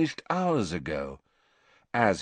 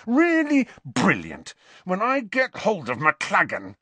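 savage sarcasm; 9 semitones higher, 3 dB louder than usual. Acted. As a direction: drag out the bitter praise. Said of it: "said Harry savagely".

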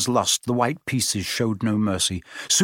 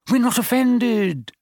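higher-pitched, eager assurance; quick reply; 11 semitones higher than usual. A narrator's reading. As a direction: reassure him at once, voice lifted. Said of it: "said Harry quickly".

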